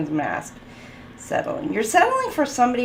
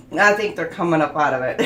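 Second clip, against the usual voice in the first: laughing; 3 dB louder than usual. Real, not acted. Reader cracks up mid-reading.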